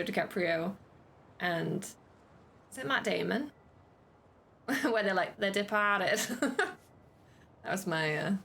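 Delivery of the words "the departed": hammed-up Brooklyn accent with a laugh in it; mock Brooklyn twang, playful and jokey; bad Brooklyn accent. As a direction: put on a cheesy Brooklyn accent. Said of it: "bad Brooklyn accent".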